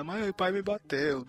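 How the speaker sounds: slow mock wail of a child telling on dad; hint of a whining kid; imitating tattling daughter. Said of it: "ela começa a chorar, gritar que o pai bateu nela".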